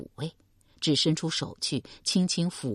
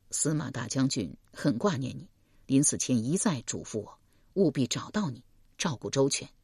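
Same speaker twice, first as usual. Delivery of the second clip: a lightly lowered calm man; man's voice Deng Yi; 3 semitones lower, 4 dB quieter than usual. Acted. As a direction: speak as a steady young man.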